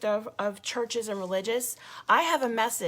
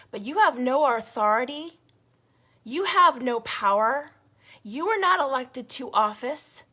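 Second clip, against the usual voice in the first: angry scolding; 3 semitones higher, 5 dB louder than usual. Real, not acted. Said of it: "I am so angry".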